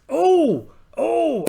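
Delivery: high, loud cry of delight; surprised cry. Acted. Pirate captain spotting treasure signs, surprised cry. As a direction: yelp at the discovery. Finds something on island.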